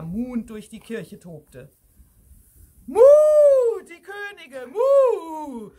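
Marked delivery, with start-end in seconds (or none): 2.9-5.7 high, loud alarmed moos; long moos and high urgent cries; mooing cow. A narrator's reading. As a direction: plead for help as a frantic cow.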